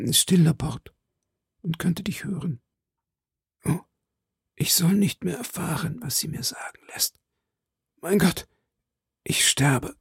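faint, high, fading into whisper; dying voice. A narrator's reading. Dying duke speaks to Laporte, fading to a whisper. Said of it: "mit ersterbender Stimme".

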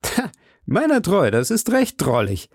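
lightly amused, high on the opening exclamation; a touch of comforted amusement in the reading; tickled, without really laughing; amused relief. A narrator's reading. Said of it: "getröstet und hielt sich vor Lachen die Seiten".

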